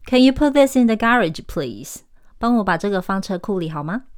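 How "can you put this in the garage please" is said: higher British request, "garage" as GA-ridge, dropping on "please"; British pronunciation. Shown as a demonstration. Teacher's example request to park it, British accent. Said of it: "英国人则是说garage".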